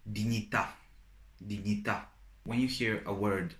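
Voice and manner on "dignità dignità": "dignità" with the accent on the final à; "dignità" as di-nyi-TA, end stressed; stress on last syllable. Shown as a demonstration. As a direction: land on the last vowel of "dignità". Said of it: "an accent on the last letter".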